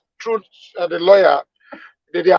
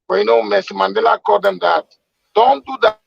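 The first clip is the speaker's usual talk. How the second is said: fade in. Real, not acted. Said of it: "Your, your audio is fading in and out".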